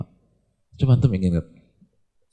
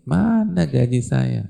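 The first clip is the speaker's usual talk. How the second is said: blunt demand; 5 semitones higher, slower than usual. Retold or imitated. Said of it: "nggak ada basa-basi".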